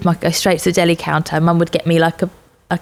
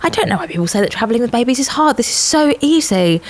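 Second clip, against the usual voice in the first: smug; 6 semitones higher than usual. Retold or imitated. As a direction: gloat about how easy it is. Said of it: "and I was like".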